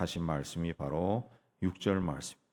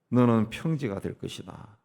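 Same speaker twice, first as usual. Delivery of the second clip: louder, declaimed command; bold proclamation; 3 semitones higher, 6 dB louder than usual. Shown as a demonstration. Preacher showing believers how to face the obstacle, bold loud proclamation. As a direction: proclaim it firmly, punching the first word. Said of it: "라고 외치고 담대하게 나아가면은".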